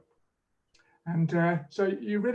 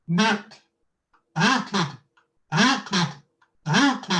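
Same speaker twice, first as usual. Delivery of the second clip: through a kazoo; 3 semitones higher, 4 dB louder, much slower than usual. Shown as a demonstration. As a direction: buzz the word through a kazoo. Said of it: "I'm gonna do knocked and waited through this kazoo".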